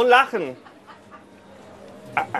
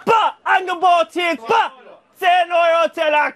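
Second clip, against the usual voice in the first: market crier shout; 5 semitones higher than usual. Real, not acted.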